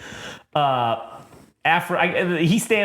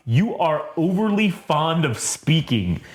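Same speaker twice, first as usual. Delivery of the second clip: Darth Vader; slower than usual. Acted. Quoting Vader's rebuke.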